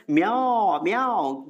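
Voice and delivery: a playful meow for म्यू; mock cat meow. Teacher jokes to students that mu sounds like a cat, meowing. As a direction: turn म्यू into a cat's म्याओ. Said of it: "नहीं, म्यू याद है किसके लिए?".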